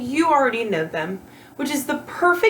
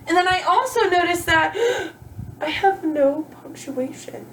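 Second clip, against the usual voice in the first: mock surprise; 6 semitones higher than usual.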